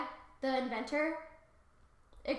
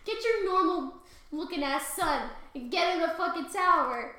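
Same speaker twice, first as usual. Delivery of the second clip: mild yell; 4 semitones higher, 4 dB louder than usual. Acted. King rant continues.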